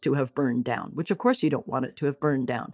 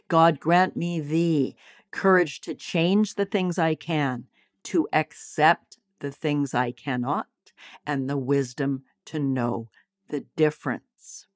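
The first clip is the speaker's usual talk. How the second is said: reciting a prayer. Acted. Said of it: "There's a beautiful prayer".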